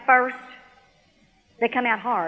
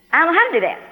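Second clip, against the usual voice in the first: higher-pitched, baffled admission; puzzled; 6 semitones higher, 4 dB louder, much faster than usual. Retold or imitated. Woman tells God she is at a loss, puzzled. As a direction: admit you are at a loss. Puzzled reply before getting mad.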